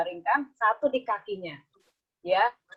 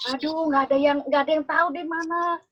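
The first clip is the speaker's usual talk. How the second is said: crying; 6 semitones higher than usual. A narrator's reading. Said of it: "Tuh, nangis lagi ya".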